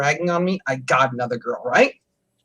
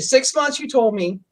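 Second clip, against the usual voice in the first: retold indignant protest; 6 semitones higher than usual. Retold quarrel with wife.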